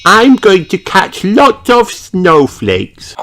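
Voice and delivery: put-on high, slow, excited little girl call; calling out with glee; Peppa shouting. A narrator's reading. Peppa catching snowflakes, excited high shout. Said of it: "shouts Peppa".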